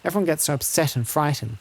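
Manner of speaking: lightly voiced worried village woman; a hint of a deferential, fretful wife; polite herder's wife. Herder's wife telling a lord of the wolves, lightly voiced and polite.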